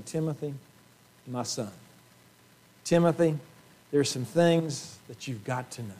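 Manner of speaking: soft, close, arm-round-the-shoulder words; tender fatherly voice. Retold or imitated. Paul drawing Timothy close, tender and soft. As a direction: speak gently like a father to his son. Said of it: "starts it off with some tenderness".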